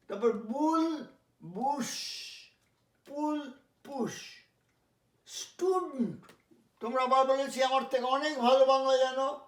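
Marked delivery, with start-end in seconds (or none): 5.3-6.3 স্টুডেন্ট as STYU-dnt, no vowel before nt; correct STUDENT. Shown as a demonstration. Teacher modelling the word, স্টুডেন্ট said STU-dnt. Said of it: "উচ্চারণটা হবে স্টুডেন্ট".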